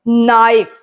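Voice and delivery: "नाइफ" with no K sound at the start; silent K. Shown as a demonstration. Teacher reads out an example word, "नाइफ" with silent K. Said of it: "के silent है".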